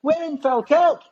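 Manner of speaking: put-on very high, drawn-out Scottish accent; Scottish girlfriend. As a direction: mimic a Scottish woman, slow and high. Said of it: "his girlfriend was Scottish".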